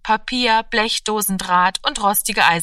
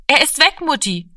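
put-on young girl; 8 semitones higher, 4 dB louder than usual. A narrator's reading. Girl reports to mother.

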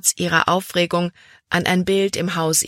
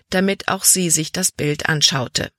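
ordinary delivery, nothing marked

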